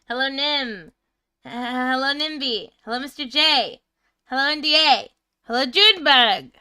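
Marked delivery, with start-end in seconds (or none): none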